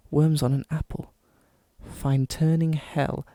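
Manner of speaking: put-on posh English accent. Podcaster reading a Googled poem aloud, posh English accent. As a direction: recite it grandly in an exaggerated posh English accent. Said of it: "as posh of an English accent as I can".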